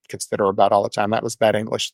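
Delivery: low, quick aside to yourself; self-correcting aside. Real, not acted. Catches own grammar slip in an aside.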